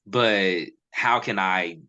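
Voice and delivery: halting, stumbling over words; stuttering. Real, not acted. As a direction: trip over the words a little. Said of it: "I'm kinda stuttering a little bit".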